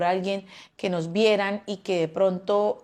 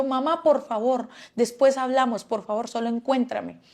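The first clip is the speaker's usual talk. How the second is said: urgent plea; 4 semitones higher than usual. Retold or imitated. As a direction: press her mother hard and fast. Begging mother to trace phone.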